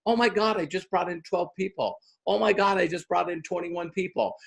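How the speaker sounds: hushed, thrilled disbelief; hushed excitement. Retold or imitated. Tara reports new sign-ups, hushed and thrilled. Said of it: "she starts posting".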